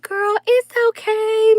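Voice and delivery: high sweet granny voice consoling a hurt granddaughter; grandma voice. Retold or imitated. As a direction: mimic sweet grandma comforting her. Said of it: "my grandma, sweet little grandma, was like".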